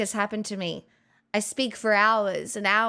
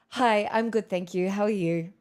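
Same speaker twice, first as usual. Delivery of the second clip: professional voice. Retold or imitated. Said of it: "I would say it in my professional voice".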